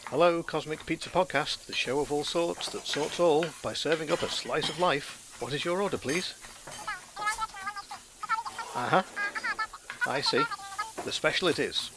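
lightly voiced pizza clerk taking an order; soft, mock-formal order taker; pizza shop phone answer.

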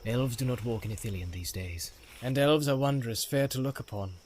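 a hint of a measured, stern leader; Faramir, stern captain. Faramir voiced in read story.

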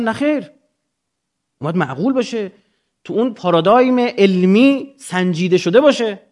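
ordinary delivery

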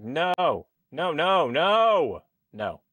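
drawn-out, swooping noes; retold dismay. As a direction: replay your dismay at bad news. Retold reaction to death news.

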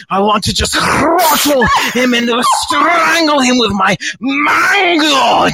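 raging mango monologue with shouted peaks, mostly own voice; a trapped mango lusting to strangle, building to shouts; hammed-up violent mango. Improvising a violence-craving mango for the podcast, hammed-up rage. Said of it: "You're a mango".

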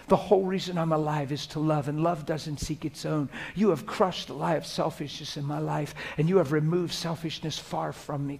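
soft, intimate prayer voice; tender prayer to the Father; private prayer. Shown as a demonstration. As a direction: pray as if alone in the truck. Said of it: "Here's how it sounds like when I'm alone".

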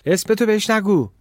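high, loud scolding cry; shouted. A narrator's reading. Girl warns her companion about the stranger, shouting. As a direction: yell it as an urgent order. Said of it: "دختر فریاد زد".

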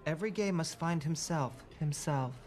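lightly voiced Yoda-like sage; wise-mentor act. Friend advises Max on finding himself, mock-sage. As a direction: pronounce it like a cryptic master, echoing the last word. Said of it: "You're gay Yodaing me".

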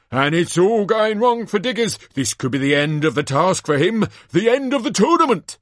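high, loud arena commentary; gasping showman's disbelief for the crowd; astonished live commentator. Acted. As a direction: call the shock twist at full excitement. Announcer commentates on disaster.

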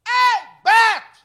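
long high yell across the slope; drawn-out shouted name. Retold or imitated. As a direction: call him out loud from up the hill. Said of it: "eu gritei".

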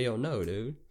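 ordinary delivery

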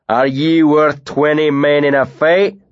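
a big bearded man feigning friendliness; lightly voiced northern bully; Tam, northern brute.

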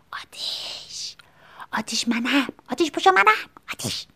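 hushed calling through the door; muffled call. Retold or imitated. Calling a neighbour at the door at night, muffled.

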